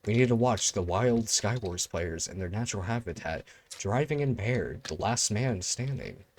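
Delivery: hushed nature documentary narrator; nature documentary narration. Pretend. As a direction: murmur like a wildlife filmmaker. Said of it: "Back to my little nature documentary".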